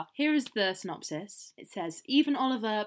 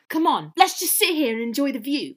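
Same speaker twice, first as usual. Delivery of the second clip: coaxing Oliver; 4 semitones higher, 5 dB louder than usual. Acted. Reads Oliver's part in play.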